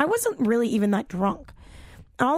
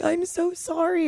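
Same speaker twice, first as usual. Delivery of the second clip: higher, drawn-out sorry; slow, pitched-up imitation of contrition; retold apology; 5 semitones higher than usual. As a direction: plead mildly, imitating a sheepish friend. Retelling friend's sheepish apology.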